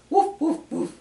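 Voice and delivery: short, high, punchy woofs; dog barking. Retold or imitated. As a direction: bark like a playful dog. Voices the dog in picture book.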